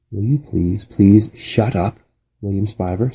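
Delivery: put-on a fed-up girl telling him to stop; lightly voiced annoyance; exasperated plea. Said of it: "said Flora".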